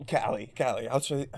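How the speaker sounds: ordinary talk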